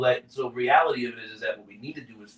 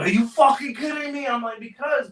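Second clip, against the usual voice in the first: very high, loud mock outburst; gunny shocked at the returned papers; outraged disbelief; 12 semitones higher, 4 dB louder than usual. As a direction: imitate the gunny blowing up.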